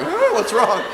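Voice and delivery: concerned passer-by. Retold or imitated. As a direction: call out in mild mock concern. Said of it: "drove by with her window down going like".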